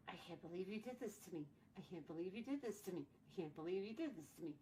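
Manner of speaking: fast, soft, fed-up mother's rant; exasperated mom. Retold or imitated. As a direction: rattle it off like a weary mother scolding. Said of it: "She still talks like that today".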